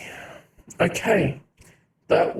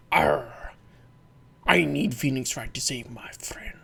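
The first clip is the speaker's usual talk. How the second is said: pirate voice; 4 semitones lower, 3 dB quieter than usual. Acted. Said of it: "We gotta do a pirate voice here".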